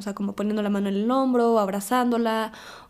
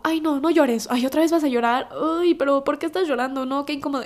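mock annoyed; 4 semitones higher, 4 dB louder than usual. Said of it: "que me digan como".

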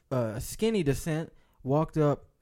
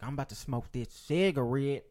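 a hint of a put-on white guy voice; white person's voice. Retelling a bowling alley fight to a buddy, lightly voiced white person. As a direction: lightly mimic a white guy, stretching the last word. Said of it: "That was a white person who said that".

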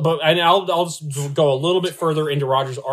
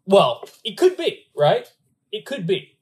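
mock hedging; 11 semitones higher, 4 dB louder than usual. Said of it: "mock hedging high voice".

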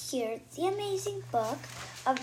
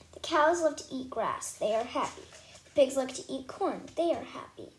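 halting beginner reading. Acted. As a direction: sound out each word like a new reader. Dory sounding out baby book.

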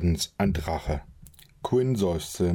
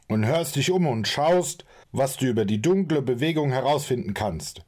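higher, sharp furious orders; angry tirade; 4 semitones higher than usual. Acted. Quinn angrily orders Torvald off on an adventure, furious. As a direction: lash out and command.

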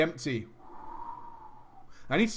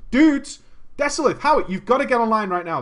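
urgent phone plea. Retold or imitated. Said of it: "I called my friend".

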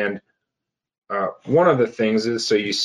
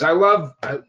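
mock grateful self-talk; 4 semitones higher than usual.

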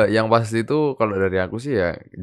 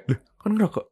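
put-on high, startled Javanese-accented question; imitated Javanese accent, pitched way up; 11 semitones higher than usual. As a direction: ask in disbelief with a Javanese lilt. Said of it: "Kita pakai logat Jawa kan".

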